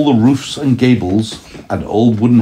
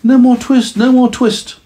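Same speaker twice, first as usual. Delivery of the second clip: high, louder fevered cry; feverish mumble; 4 dB louder than usual. Acted. Sick tailor crying out in his sleep, high and loud. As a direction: moan it from a fever dream. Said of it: "in his dreams he mumbled".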